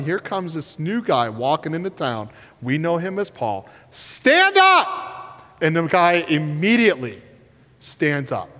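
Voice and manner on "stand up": high, ringing shout; Paul's commanding cry; sharp command. Acted. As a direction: call it out with authority. Paul commands the crippled man.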